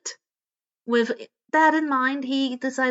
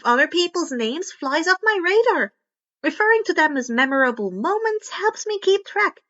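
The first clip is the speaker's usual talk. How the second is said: put-on a touch higher, eager inventor girl; lightly voiced Hatsume; 4 semitones higher than usual. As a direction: raise the voice a bit for the chatty inventor.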